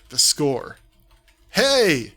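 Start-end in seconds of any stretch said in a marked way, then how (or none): 1.5-2.1 loud sharp call across hell; a bold challenging yell. A narrator's reading. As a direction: shout to grab every demon's attention. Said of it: "you yell".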